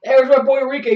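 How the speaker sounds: normal talking voice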